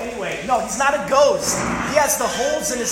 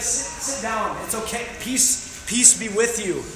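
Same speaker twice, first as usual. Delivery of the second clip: calming reassurance; slower than usual. Pretend. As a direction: settle frightened friends gently. Jesus calming screaming disciples.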